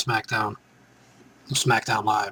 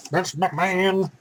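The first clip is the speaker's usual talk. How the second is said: hype announcer; 7 semitones higher, slower than usual. Pretend. Hyping Vince McMahon's entrance.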